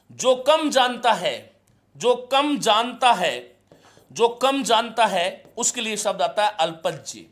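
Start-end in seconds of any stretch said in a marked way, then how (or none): 0.1-5.4 slow dictation. Shown as a demonstration. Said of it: "teacher repeats for the class".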